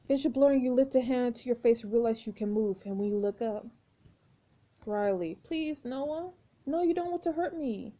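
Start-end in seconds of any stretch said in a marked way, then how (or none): 5.4-7.9 put-on pleading girl. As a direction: beg him gently in a young girl's voice. Jane's voice pleading with Noah.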